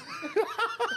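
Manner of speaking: squealing laugh; a high, sudden cackle; shrieking giggle; high burst of laughter. Real, not acted. Laughing at Siri joke.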